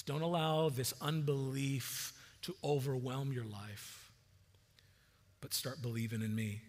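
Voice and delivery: gentle and kind. Shown as a demonstration. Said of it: "It's very gentle".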